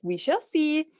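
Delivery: high, doubtful wife voice; the never-satisfied wife replying, high and doubtful; skeptical wife. Retold or imitated. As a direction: pitch it up as if unconvinced.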